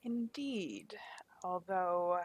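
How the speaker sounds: breathy conspiratorial whisper. Acted. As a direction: whisper it, just for her.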